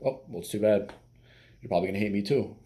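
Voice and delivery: light, teasing mock resignation; joking comeback. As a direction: shrug it off as a joke. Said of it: "But joke around".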